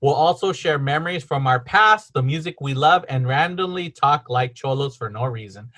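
measured blurb read; reading aloud. Real, not acted. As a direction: read the show description to listeners. Reads the podcast description.

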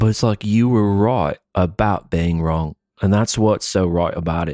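playful fake British accent; mock British accent. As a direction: put on a British accent while insisting it's normal.

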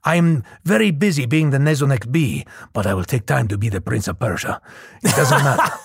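lightly voiced Spanish accent; a hint of a suave Spanish prince; Antonio Banderas. Actor sketching the prince he wanted, a light Spanish accent. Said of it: "Antonio Banderas, something like this".

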